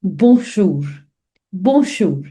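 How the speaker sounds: bonjour, "bon" nasal then "jour"; careful French. Shown as a demonstration. Teacher demonstrating Bonjour slowly for learners. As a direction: say Bonjour carefully in two parts. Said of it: "try to break the word".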